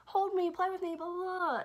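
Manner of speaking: high, loud mock little-kid clamor; imitating screaming child. Little girl to her dad as he comes home, mock screaming. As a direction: mimic a kid shrilly demanding attention. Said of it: "Poppy's screaming for her dad".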